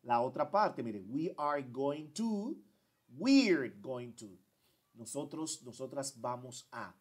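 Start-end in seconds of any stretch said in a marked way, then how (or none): 1.1-2.6 slow full form, "to" rising; slow long form. Shown as a demonstration. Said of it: "Aquí yo digo". 3.2-4.3 slow, "we're" stressed; slow contracted form. Shown as a demonstration. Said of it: "Aquí yo digo".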